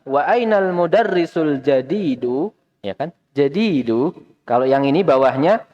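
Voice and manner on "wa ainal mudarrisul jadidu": slow, rising question tune on ainal. Shown as a demonstration. Teacher models asking like a real question. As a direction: ask "Wa ainal mudarrisul jadidu" like a real question, slow with a rise. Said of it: "harus seperti orang bertanya".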